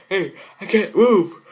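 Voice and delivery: high, loud, slow panic; panicked cry. Acted. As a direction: cry out, unable to move. Girl frozen by monster.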